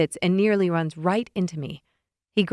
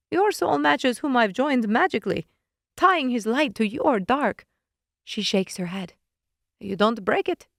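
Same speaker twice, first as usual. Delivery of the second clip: a hint of a smug witch explaining; slightly higher, knowing witch voice; lightly voiced witch; 5 semitones higher than usual. Witch explaining the bond to narrator, lightly voiced.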